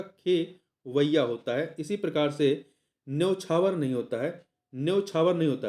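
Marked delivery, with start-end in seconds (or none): 0.0-1.8 खेवैया said slowly with ए after ख; drawn-out "खेवैया" to teach the vowel; slow correct form. Shown as a demonstration. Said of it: "खा पे ए की मात्रा होता है". (धीरे-धीरे "खेवैया", ख पर ए की मात्रा साफ़ बोलें)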